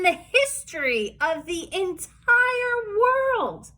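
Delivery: put-on lavish praise on the kids; gushing praise.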